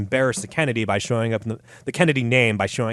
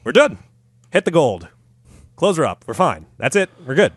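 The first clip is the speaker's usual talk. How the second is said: brisk doctor; 3 semitones higher, 4 dB louder than usual. Pretend. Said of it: "Walter and Watts were like".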